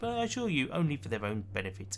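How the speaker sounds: polished, upbeat tour guide; a lightly voiced cheerful guide. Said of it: "I'm enjoying the tour guide's voice".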